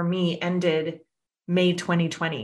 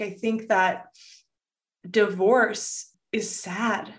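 emotional; 3 semitones higher than usual. Real, not acted. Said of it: "getting a little emotional over here".

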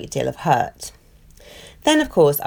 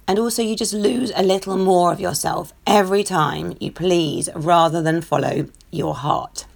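a croaky throat that needs clearing; 2 semitones higher than usual. Real, not acted. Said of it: "croaky voice".

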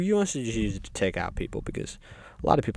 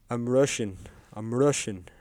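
put-on half-hearted Russian accent; rough Russian accent. Stalin introduces himself on arriving in hell, in a rough Russian accent. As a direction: attempt a vague Russian accent. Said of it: "I don't know Stalin's accent".

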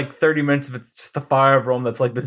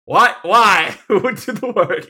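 mock aghast noble; 7 semitones higher, 5 dB louder than usual. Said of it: "It's like".

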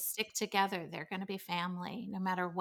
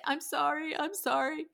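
put-on higher, grudging kid's sorry; sulky kid apology; 7 semitones higher than usual. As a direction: mumble it like a kid made to apologize. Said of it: "they would eventually say".

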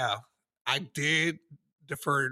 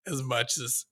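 earnest speech quote. Retold or imitated. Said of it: "That speech".

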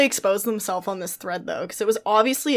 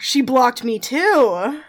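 gasping shock; 3 semitones higher, much slower than usual. Real, not acted.

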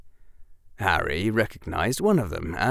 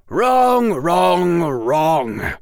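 loud scolding that eases off each time; repeated shout, fading; 9 semitones higher, 8 dB louder, much slower than usual. A narrator's reading. Quirrell repeats his loud rebuke to Harry, fading. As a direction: hammer it three times, dropping away.

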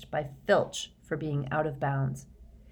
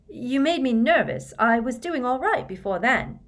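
rueful; 7 semitones higher, 5 dB louder than usual. A narrator's reading. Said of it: "Cho told Harry ruefully".

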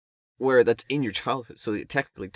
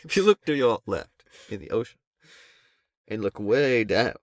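hammy narrator; 2 semitones higher, 5 dB louder than usual. Acted. Guiding viewers into the ocean, hammy narrator. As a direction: draw out the last words like a guide. Co-host plays nature narrator.

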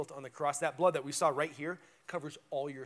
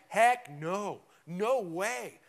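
firm, louder flat refusal; emphatic no; 2 semitones higher, 6 dB louder, much slower than usual. Retold or imitated. Paul refusing to keep sinning under grace, emphatic. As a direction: slam the door on the idea. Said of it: "he has the most emphatic".

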